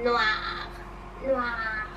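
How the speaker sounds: drawn-out witchy impression; lightly voiced witch; evil witch. Shown as a demonstration. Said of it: "Like an evil witch".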